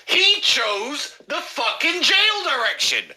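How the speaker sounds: rising to a triumphant yell; triumphant shout. Acted. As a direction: bellow the punchline like you cracked the case. Building triumphant rant.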